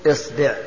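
"إصبع" said as isbi', i in both syllables; opening i, middle i. Shown as a demonstration. Teacher lists variants for students, "إصبع" as isbi'. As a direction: say "إصبع" with kasra on hamza and ba. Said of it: "كسر الهمزة".

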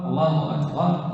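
"أكبر" said as "akbaar" after a short "الله"; lengthened "أكبر". Shown as a demonstration. Teacher showing the muezzins' error, final vowel lengthened. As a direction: stretch the last vowel of "أكبر". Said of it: "لا".

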